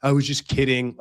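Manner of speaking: lightly mocked victim act; playing the victim. Girlfriend excusing her prank to boyfriend, mock victim act. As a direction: imitate her wounded innocence, mockingly. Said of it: "she did the whole victim thing".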